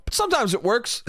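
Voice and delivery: said through a rising chuckle; laughing. Real, not acted. Breaks into laughing at own line.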